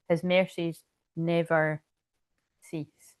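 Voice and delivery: slow, solemn reading of verses that fades to a whisper at the end; scripture recitation. Acted. Reciting favourite Bible verses to her viewers, slow and solemn. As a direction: intone each verse like a reading in church.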